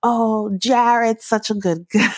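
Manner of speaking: imitated New York accent. Retelling what relatives said about Jared: imitating a New York accent. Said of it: "y'all have those New York accents".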